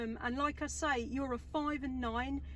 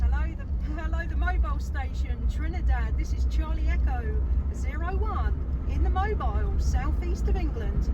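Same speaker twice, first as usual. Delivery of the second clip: projecting loudly into the mic; loud, firm ham radio call-out; 9 dB louder than usual. Real, not acted. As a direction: call out loud over the airwaves. Calling a distant radio station.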